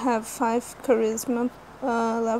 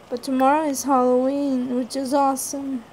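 voice cracking. Real, not acted. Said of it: "Sorry, my voice just cracked".

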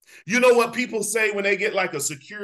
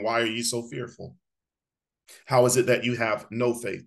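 mock Jesus; 10 semitones lower than usual. Jesus questions disciples, quoted.

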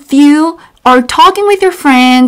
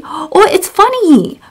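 enthusiastic demo; 3 semitones higher, faster than usual. Shown as a demonstration. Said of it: "you can say".

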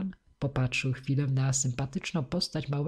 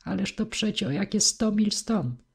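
higher-pitched, astonished protest; dismayed exclamation; 7 semitones higher than usual. A narrator's reading. Gentleman warning boy of the long distance, exclaiming.

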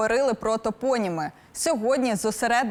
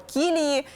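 Кілії stressed on the first syllable, КІ-; 4 semitones higher than usual. Shown as a demonstration. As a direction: hit the opening of Кілії. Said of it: "наголошування на перший склад". (наголос на першому складі: Кілії)

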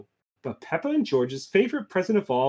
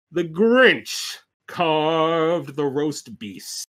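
storybook climax with drawn-out key words; dramatic story narration; slower than usual. A narrator's reading. Ending the Grinch tale, dramatic story narration. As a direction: build to a slow, grand finish.

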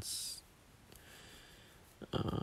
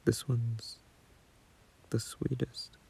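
breathy private whisper, almost unheard; whispered to himself. Real, not acted. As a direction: let it slip under your breath, not meant to be heard.

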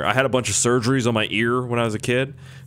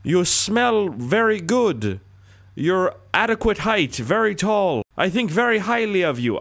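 put-on Canadian accent; 8 semitones higher than usual. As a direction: lay on the compliments in a high Canadian voice. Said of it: "back to the Canadian diss track".

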